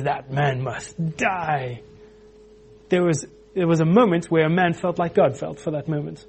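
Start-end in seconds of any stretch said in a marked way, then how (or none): 0.0-1.8 enraged. Retold or imitated. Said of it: "and David gets enraged".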